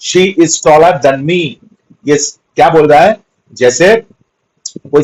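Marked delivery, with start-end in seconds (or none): 0.1-1.5 each word read out slowly and clearly; slow example read. Shown as a demonstration. Teacher reading an example to students, very slowly. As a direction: spell it out for the class at a crawl.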